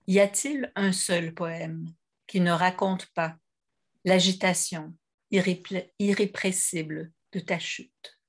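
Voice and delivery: measured poem recitation with pauses between lines; poetry reading. Real, not acted. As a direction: read each verse apart, letting it settle. Quotes a poem aloud.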